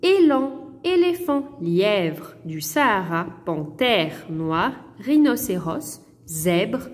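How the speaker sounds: Élan, éléphant read slowly with clear é sounds; teacher reading a word list aloud; careful reading. Shown as a demonstration. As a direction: read each animal name clearly for pupils. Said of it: "Écoutez bien la prononciation".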